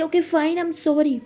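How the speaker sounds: acted quarrelsome apology; exasperated apology. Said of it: "मैं चिल्ला रही हूँ".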